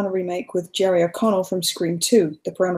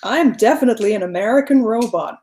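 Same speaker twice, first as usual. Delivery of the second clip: computer posing as an American human; hint of robotic American accent. Teased as sounding like a computer, mock American robot. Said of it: "You sound like a computer trying to fool".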